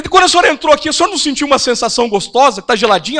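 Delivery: loud, bright, cheeky question; matching her loud tone. Retold or imitated. Pastor answering the complaining lady, loud and teasing. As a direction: answer her at the same volume, playfully. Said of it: "no mesmo tom de voz dela".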